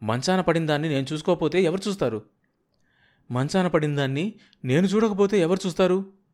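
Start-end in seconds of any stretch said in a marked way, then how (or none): 3.3-6.2 repeated line pitched much higher; higher drawn-out repeat. Acted. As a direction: say it again higher, stretching it out. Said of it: "సాగదీస్తూ అంది".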